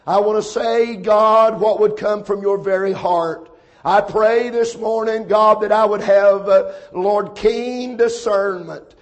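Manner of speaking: praying aloud in steady, flowing phrases; earnest prayer. Real, not acted. Preacher asking the Lord to guide his words, earnest prayer. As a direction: pray earnestly on behalf of the congregation.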